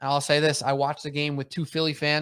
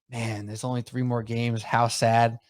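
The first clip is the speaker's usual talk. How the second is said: mock sad; 2 semitones lower, slower than usual. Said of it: "we're sitting here saying".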